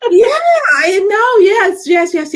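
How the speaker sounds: high, slow excited cry; gleeful high yelp; excited yeah. Real, not acted. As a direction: burst out delighted. Excited laughing reply.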